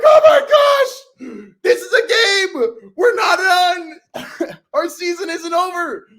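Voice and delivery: very high, loud, slow cries of disbelief; reenacted screaming relief; ecstatic fan outburst. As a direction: relive it as an overjoyed fan yelling. Acting out reaction to the catch.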